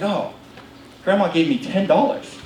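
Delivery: mildly let-down brother; imitating a disappointed kid. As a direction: sag on "oh", understated disappointment. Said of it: "just disappointed".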